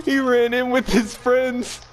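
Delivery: high, slow, laughing through words. Real, not acted. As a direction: crack up while telling it. Laughing at the funny kill.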